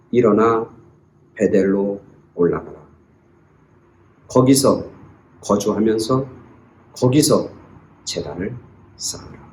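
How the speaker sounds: low, very soft, with long pauses; gentle, no reproach. Acted. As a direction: speak God's call quietly, fading to a hush. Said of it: "비아냥거리지 않고". (책망 없이 낮고 조용하게)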